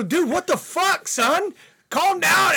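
high, loud, incredulous retort; startled protest. Retold or imitated. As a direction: re-enact shouting back at a yelling friend. Retelling his reply to yelling friend.

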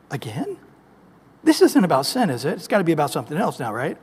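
soft, incredulous sigh of a question; as if he can't believe it; a lightly voiced, weary God. God exasperated at repeat.

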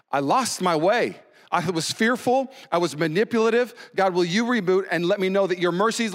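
preacher acting out a pleading prayer; repentant prayer. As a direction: call out to God in fervent confession. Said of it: "Repentance is rebooting your mind saying".

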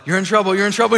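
relentless loud voice in the ears. Acted. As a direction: blare the accusation with no escape. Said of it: "it's getting louder and louder".

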